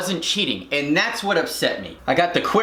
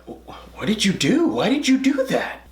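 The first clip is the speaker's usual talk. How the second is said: higher, put-on kid voice; gawking classmates; 4 semitones higher than usual. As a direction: imitate appalled kids, pitched up. Classmates looking back, acted.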